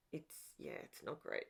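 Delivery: low, unvoiced grumble; muttered aside. Real, not acted. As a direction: mutter it under your breath. Grumbling about the glue gun.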